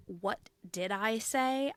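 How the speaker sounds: "What did I say" drawn out with a tongue roll. Shown as a demonstration. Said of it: "I roll my tongue so often".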